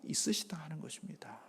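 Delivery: breathless hushed whisper. Real, not acted. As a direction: let it fall to a whisper. Whispered end of sermon point. (속삭이며 마무리)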